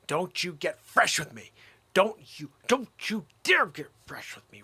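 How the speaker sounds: a hint of a stern parent building up; mock scolding. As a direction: wag a finger, getting sterner. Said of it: "That's what people say".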